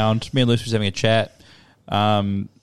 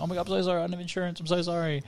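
higher, soft mock-tearful voice; imitated tearful apology; 5 semitones higher, 8 dB quieter, faster than usual. Young driver apologising after crashing, imitated tearful voice. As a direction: lightly imitate an upset young woman. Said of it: "She's, like, crying".

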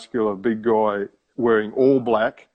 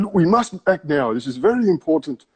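higher-pitched mock urgent irate voice; 5 semitones higher than usual. Scammer ringing again in London, mock irate urgency. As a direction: push hard as the impatient scammer. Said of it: "he was quite irate with me".

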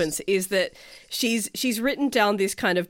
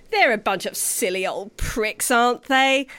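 too British; 2 semitones higher than usual. Acted. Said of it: "that was too British".

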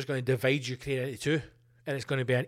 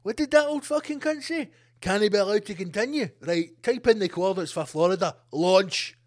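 angry higher Kremlin official; mock Kremlin general calling the strike; 3 semitones higher, 3 dB louder than usual. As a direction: bark the launch order. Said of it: "the Kremlin's going".

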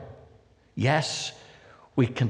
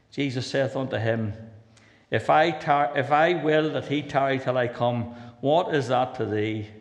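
scripture reading; 4 semitones higher than usual. Acted. Reads King James scripture aloud.

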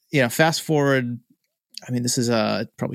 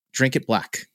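blunt, light Irish brogue; a curt order in a mild imitation Irish brogue; slower than usual. Irish friend orders him to drink it black, mild Irish brogue. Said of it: "got a brogue to him".

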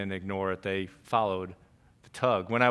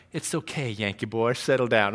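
calming Southern friend. Retold or imitated. Southern friend calms agitated colleague in a meeting, soothing. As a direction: settle him down gently, lightly Southern. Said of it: "to kinda calm me down".

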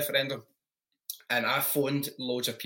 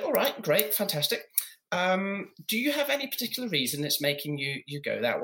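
camp caller voice; 5 semitones higher than usual. Retold or imitated. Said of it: "So I kept doing this voice".

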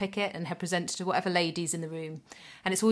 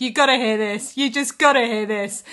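loud, raised imitation of a tickled partner; retold amused outburst; 4 semitones higher, 10 dB louder than usual. Partner who just heard the boy's secret, retold amused outburst. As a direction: imitate bursting to share the joke. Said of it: "starts laughing, goes".

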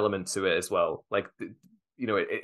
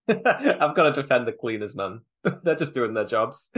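laughing. Real, not acted. Joking defence of the cleaners.

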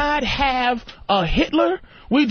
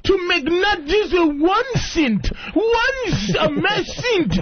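higher, half-crying, shouted mock lament; hammed-up tearful immigrant voice; immigrant complaint; 4 semitones higher, slower than usual. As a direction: wail about tiny pay like a put-upon worker. Mocking a Haitian immigrant's complaint.

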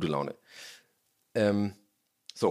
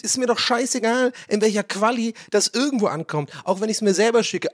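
rant at phone; 7 semitones higher than usual. Real, not acted. Schimpft aufs iPhone.

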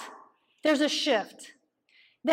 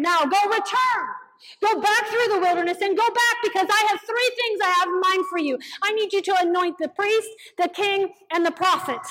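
commanding God; 3 semitones higher than usual. Acted. Voicing God's command.

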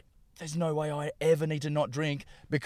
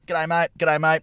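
put-on stock Australian greeting accent; the same broad Australian accent both times; 4 dB louder, slower than usual. Comic showing Australians all sound alike, Australian accent. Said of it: "Exactly the same".

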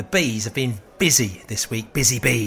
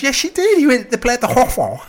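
imitating daughter; 10 semitones higher, 4 dB louder than usual. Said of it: "He goes".

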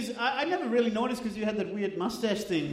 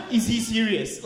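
imitated French-accented waiter; 4 dB louder than usual. Waiter asking the friend about the diner, rough French accent. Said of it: "That's a great French accent".

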